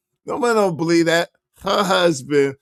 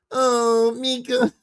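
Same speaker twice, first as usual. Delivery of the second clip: mocking coo; 5 semitones higher, slower than usual. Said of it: "does not talk like".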